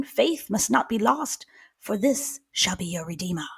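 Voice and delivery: measured, solemn poem recital; poem reading. Acted. Cohost reading the time-traveler's cryptic poem, solemn recital. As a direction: read it like an ominous prophecy. Reads the mystery poem aloud.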